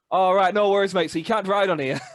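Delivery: loud and high, a jovial local switching to English; a French man answering in broad English, loud and high; surprisingly British Frenchman. Retold or imitated. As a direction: boom it out like a cheery bloke who suddenly speaks English. French man suddenly talks like a Brit.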